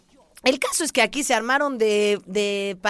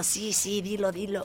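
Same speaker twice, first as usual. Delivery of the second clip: a soft murmured whisper-like urging; hushed producer egging her on; 5 semitones lower, 9 dB quieter, slower than usual. Retold or imitated. Retelling the producer's silent urging, hushed. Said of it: "sonríe como diciendo".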